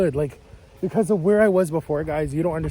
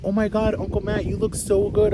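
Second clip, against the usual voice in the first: gushing; 6 semitones higher than usual. Retold or imitated. Niece gushing at uncle.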